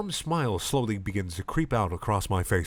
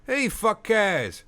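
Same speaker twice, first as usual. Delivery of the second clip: put-on high, very slow slurred drunk; drunk man voice; 13 semitones higher, much slower than usual. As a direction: drawl it like a pub drunk. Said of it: "says the man".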